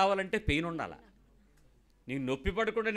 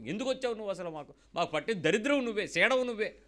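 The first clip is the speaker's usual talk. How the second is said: imitating angry husband; 3 semitones higher than usual. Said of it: "బూతులు తిట్టినోళ్ళు ఉన్నారు".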